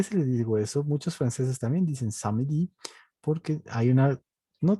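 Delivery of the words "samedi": "samedi" in three syllables, sa-me-di; sounded E. Shown as a demonstration. Teacher showing how others say it, E sounded. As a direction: let the E slip into "samedi". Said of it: "se les patina la E".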